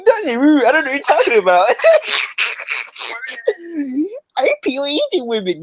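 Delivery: put-on high Asian-accented prank voice breaking into laughter. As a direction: keep up the fake Asian accent, high and giggly. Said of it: "Your Asian voice is very".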